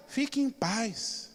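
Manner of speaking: soft, slow and soothing; calm reassurance. Retold or imitated. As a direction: gently settle her down.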